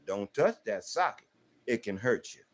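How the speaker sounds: put-on calm first warning to a child; steady instruction, no anger. Shown as a demonstration. Father warning his child about the socket, calm. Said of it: "I'm gonna warn you with instruction".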